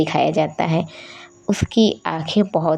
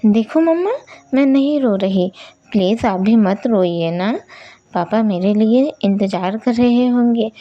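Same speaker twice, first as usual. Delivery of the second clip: put-on higher childlike voice, coaxing mama to stop; a brave twelve-year-old girl begging the sky; girl trying not to cry; little girl pleading; 4 semitones higher than usual. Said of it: "बोलती है".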